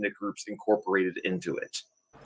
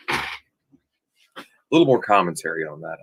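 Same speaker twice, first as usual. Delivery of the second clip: lightly put-on voice; 4 semitones lower, slower than usual. Shown as a demonstration. Host repeating his line in a slow, low mock voice. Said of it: "repeats the line".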